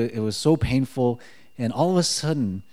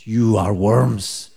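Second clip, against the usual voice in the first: slow, loud mock berating; stern mock telling-off, half in jest; mock drill yell; 2 semitones lower, 6 dB louder, much slower than usual. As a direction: draw it out loudly, imitating a hardcore leader. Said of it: "we would get yelled at".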